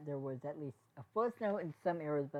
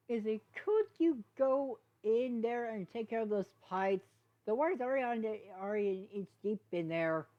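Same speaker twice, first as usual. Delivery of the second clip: urgent request; 6 semitones higher, 6 dB louder than usual. Acted. Hitch asking Izzy to fix the flooded pipes, urgent. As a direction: hurry her to the flooded station.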